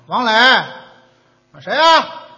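calling through the door, who is it; a sleepy voice at the door; asking who's there. Retold or imitated. At home at midnight, answering a knock: asking who. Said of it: "一问我".

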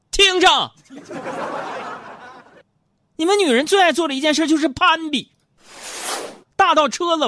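high, loud comic tirade; mock rant. Host mock-ranting at female listeners about showing off, high and loud. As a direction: harangue the women listeners in jest.

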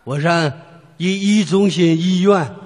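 slow, stammering old man, lightly voiced; halting old man. Old passenger telling the driver where to go, slow stammer. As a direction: drag out the hospital name like a frail grandpa.

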